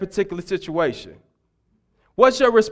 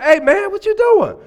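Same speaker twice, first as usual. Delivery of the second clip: mock frightened; 12 semitones higher, 4 dB louder than usual. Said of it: "he was like".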